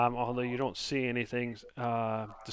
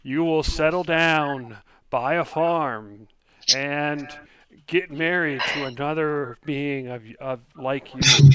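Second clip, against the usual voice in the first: fortune teller voice; 9 dB louder than usual. Acted. Fortune teller gives second fortune.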